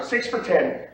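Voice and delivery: practice bid nudged up slightly in volume. Shown as a demonstration. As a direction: lift the voice one small step. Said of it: "And you say a little louder".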